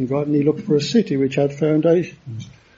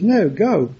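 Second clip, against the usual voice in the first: urgent command; 2 semitones higher than usual. Retold or imitated. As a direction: send them off with urgency, as God's order. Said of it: "this is a sense of urgency".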